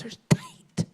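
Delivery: squeaky, very high "tight"; mock shocked gossip. Sister gossiping about the pants, squeaky high. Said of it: "talking about my niece".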